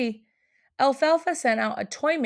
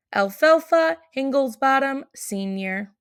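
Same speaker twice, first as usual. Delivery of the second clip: head elf's letter. Acted.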